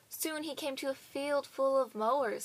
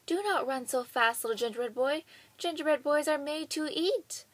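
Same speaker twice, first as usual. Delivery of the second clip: calling out; 4 semitones higher, 5 dB louder than usual. Acted. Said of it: "called out".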